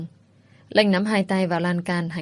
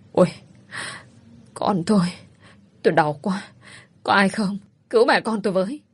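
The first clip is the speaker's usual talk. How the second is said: crying out in pain; 2 semitones higher than usual. Acted. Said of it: "khóc lóc kêu đau".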